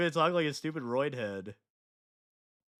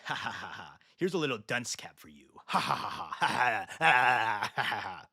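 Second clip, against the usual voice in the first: mocking laughter; 2 semitones lower, 4 dB louder than usual. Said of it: "put him in timeout like a little baby".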